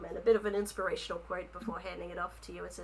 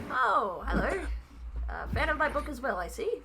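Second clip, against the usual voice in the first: higher, eager little author voice; rabbit folk author voice; 5 semitones higher than usual. Acted. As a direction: play the shy, flattered rabbit writer.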